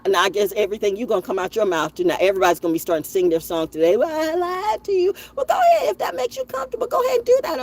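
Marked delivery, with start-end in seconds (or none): 4.0-7.6 mock sarcastic. Mocking liars' confession.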